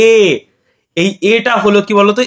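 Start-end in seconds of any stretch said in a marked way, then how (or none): 0.1-0.1 এ said as a clear "ay" for the class; teacher voicing এ for pupils; letter name demo. Shown as a demonstration. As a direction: model এ cleanly so the class echoes it. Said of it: "দেখো উচ্চারণ করো".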